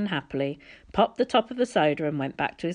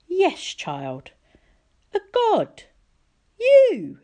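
rising, louder divine threat; menacing god; 13 semitones higher, 6 dB louder, much slower than usual. A narrator's reading. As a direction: let the power swell.

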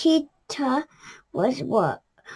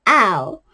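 cross ow; 4 semitones lower, 6 dB louder than usual. A narrator's reading. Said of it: "said Kangaroo crossly".

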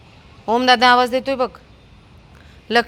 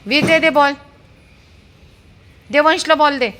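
excited calling; 7 semitones higher, 4 dB louder than usual. Real, not acted. Asking dog for ball.

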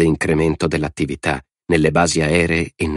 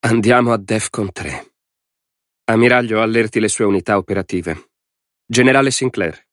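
higher, firm presidential command; raised-pitch order to the military; 4 semitones higher than usual. A narrator's reading. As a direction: issue the orders decisively.

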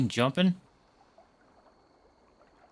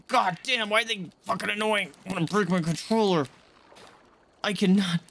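higher, exasperated swearing; frustrated outburst; 5 semitones higher than usual. Real, not acted. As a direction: vent at the game. Frustrated at the fish game.

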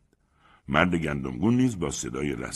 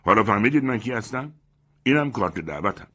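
louder, raised challenge; vindicated loud retort; triumphant shout; 5 semitones higher, 5 dB louder than usual. Acted. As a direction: slap down your proof. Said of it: "فریاد زد".

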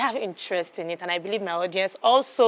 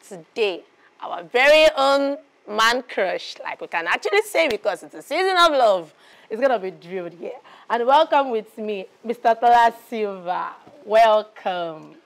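guest introduction; 4 dB louder than usual. Acted. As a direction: announce the star guest with projection.

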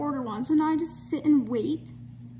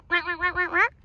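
high, repeated bird squawk; quick run of raised quacks; magpie call; 5 semitones higher than usual. Retold or imitated. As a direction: imitate a magpie's chattering call. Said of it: "The bird that goes".

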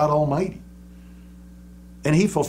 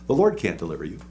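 voice of sickness; 9 semitones lower, faster than usual. Pretend. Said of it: "that sickness, is saying".

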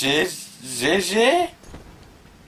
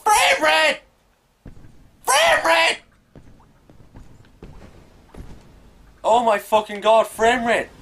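very high, loud shrieks of frustration; exasperated screaming; 13 semitones higher, 4 dB louder, slower than usual. Real, not acted. Gamer shrieking at his laptop over the lag, exasperated. Screaming at laggy frame rate.

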